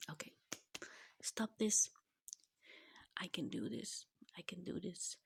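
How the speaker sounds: tearful whispered self-talk; pulling herself together through tears; blubbering. Real, not acted. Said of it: "sorry for the crying".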